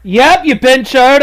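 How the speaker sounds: slow, loud insult, each word stretched; loud drawn-out taunt. Real, not acted. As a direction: drag out the insult loudly. Taunting scam caller, loud drawn-out.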